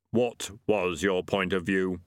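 lightly voiced Death. A narrator's reading.

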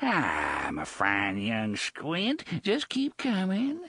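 slow crooning pirate coax; a hint of leering lure; Gasher luring. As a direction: coax him closer with fake sweetness.

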